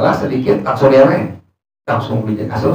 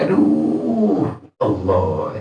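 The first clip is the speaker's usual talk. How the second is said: retold cry of pain; 7 semitones lower, 6 dB quieter, much slower than usual. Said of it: "Dia teriak".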